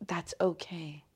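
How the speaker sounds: whispered, gently soothing herself; hushed self-comfort whisper; whispered reassurance. Shown as a demonstration. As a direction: breathe the words to yourself. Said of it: "that's how I can think to myself".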